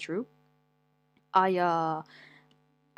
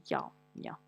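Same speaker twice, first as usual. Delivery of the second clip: whispered; 8 dB quieter than usual. Real, not acted. Muttered agreement.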